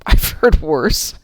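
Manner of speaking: slow amused aside, rising; wry inner thought. Retold or imitated. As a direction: drawl it, unimpressed. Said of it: "And I'm thinking".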